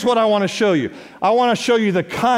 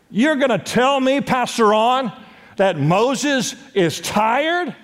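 higher, slowing on tired; incredulous; 4 semitones higher than usual. Retold or imitated. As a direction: challenge the pastor in disbelief. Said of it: "some of you are sitting there thinking".

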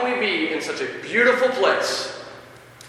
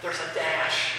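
calm first reading; 8 dB quieter, slower than usual. Shown as a demonstration. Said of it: "I get all excited".

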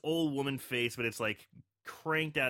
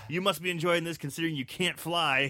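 lightly acted razzing, slightly higher and firmer; mock taunting; 4 semitones higher, 4 dB louder than usual. Seagull razzing Turkey about flying, lightly acted mockery. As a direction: needle him with a playful jab. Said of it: "starts mocking Turkey about the fact".

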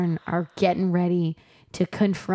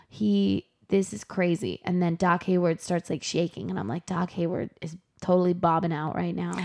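much softer muttered commentary; watching the fight, hushed and stunned; hushed disbelief; 2 semitones lower, 5 dB quieter than usual. Real, not acted. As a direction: say it under your breath in shock.

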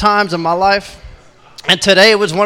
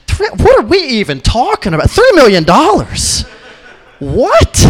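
high, loud mock outrage; hammed-up baffled protest; incredulous; 4 semitones higher, 4 dB louder than usual. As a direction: pitch it up in exaggerated disbelief. Acted disbelief at the refusal.

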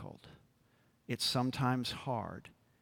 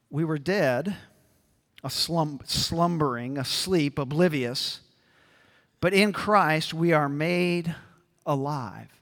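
louder and louder, preaching hard; rising emphasis; 2 semitones higher, 6 dB louder than usual. Real, not acted. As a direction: build from dead to alive with force. Preacher building to a climax.

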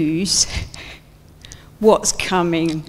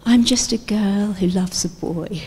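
pleading line. Pretend. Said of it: "I imagine Mary saying this line".

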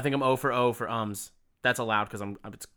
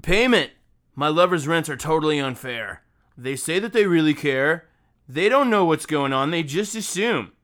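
dramatic reading; 3 semitones higher, 3 dB louder than usual. Acted. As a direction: proclaim each line as melodrama. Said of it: "as dramatically as I possibly can".

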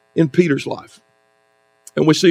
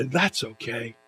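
much softer, forced sweetness masking resentment; tight-lipped fake forgiveness; 7 semitones lower, 14 dB quieter, slower than usual. The offended host quietly tells the latecomer it's okay, softly forced. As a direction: say it's fine through clenched calm. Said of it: "they will say".

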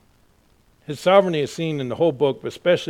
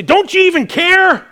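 whiny complaint; 13 dB louder than usual. Retold or imitated. Believers accusing God.

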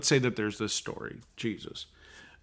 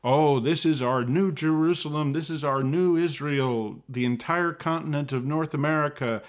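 lightly mocking, slightly raised voice; mock settler justification; 3 semitones higher than usual. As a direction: parody a self-justifying believer, lightly. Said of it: "saying that".

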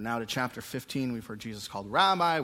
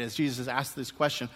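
ordinary delivery

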